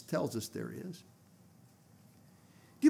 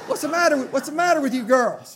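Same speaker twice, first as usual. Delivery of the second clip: put-on higher, louder question with you girls, laughing through it; laughing imitation; 9 semitones higher, 8 dB louder than usual. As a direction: mimic the revived woman's "you girls" with a laugh. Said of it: "She didn't say y'all, she was a Westerner".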